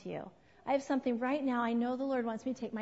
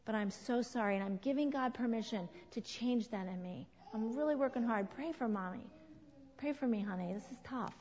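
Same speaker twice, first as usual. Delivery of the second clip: tender apology; 2 semitones lower, 4 dB quieter than usual. Shown as a demonstration. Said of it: "next time you have to go, say".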